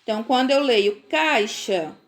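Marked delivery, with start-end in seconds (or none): 1.1-2.0 "caixa" pronounced KAI-sha; CH sound in caixa. Shown as a demonstration. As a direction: say "caixa" with a clear sh for the x. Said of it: "têm o som do C H".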